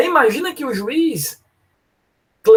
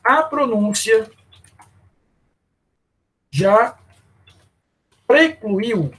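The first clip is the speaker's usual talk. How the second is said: slow with long pauses before "já" and "precluiu"; judge's answer; much slower than usual. Retold or imitated. Teacher voicing the judge's answer, slow with pauses. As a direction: lay out each word of the verdict. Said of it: "vai dizer o seguinte".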